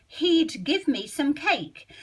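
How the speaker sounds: He'd said as one quick syllable; how you'd really say it, easy; natural contraction. Shown as a demonstration. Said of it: "how would you say it".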